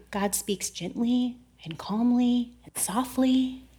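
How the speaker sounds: soft, slow and hushed; gentle, calm. Shown as a demonstration. Telling how God speaks most of the time, gently and softly. Showing God's gentle manner.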